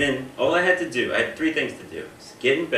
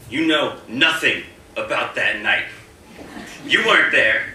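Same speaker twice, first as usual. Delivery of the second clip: mock-defensive, louder and higher, as if accused; defensive outburst; 5 semitones higher, 5 dB louder than usual. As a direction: snap back like a suspect cornered in an interview. Answering as if guilty of a crime.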